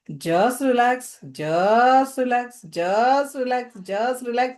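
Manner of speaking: slow, soothing repeated affirmations; guided relaxation. Acted. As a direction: draw each word out and calm the listener. (धीमे, शांत करणारे शब्द)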